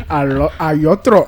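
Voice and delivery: "l'autre" slowly said as "yotro", with a y for the l; "l'autre" drawn out with a y-glide instead of l; imitated mispronunciation. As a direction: mimic someone garbling "l'autre" into "yotro". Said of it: "Il allait vous dire".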